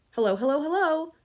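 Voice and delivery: high, loud parrot call; parrot's greeting from up the chimney. Acted. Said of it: "the bird called down".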